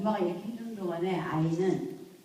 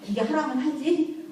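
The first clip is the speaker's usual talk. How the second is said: stern demand; 7 semitones higher, 5 dB louder than usual. Retold or imitated. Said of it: "호랑이 새끼 절벽에서 떨어뜨린다고".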